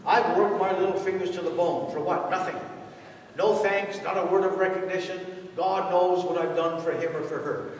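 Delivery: whining martyr. Retold or imitated. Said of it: "this is how they talk".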